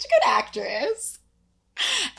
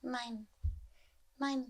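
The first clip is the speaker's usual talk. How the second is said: hushed possessive; 11 dB quieter than usual. Acted. Possessive hushed warning over shoes.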